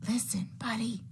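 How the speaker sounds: breathy whisper. Acted. Parents whispering to Buddy to listen, whisper. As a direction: whisper it close to his ear. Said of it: "They tried whispering".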